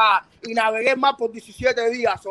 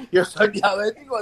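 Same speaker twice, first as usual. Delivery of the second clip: laughing; 3 semitones lower, slower than usual. Real, not acted. Laughs at joke.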